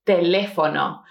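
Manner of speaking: "teléfono" with the stress on the second syllable, LÉ. Shown as a demonstration. Teacher pointing out the written accent, "teléfono" stressed on LÉ. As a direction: lean on LÉ in "teléfono". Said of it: "Something really important here is the pronunciation".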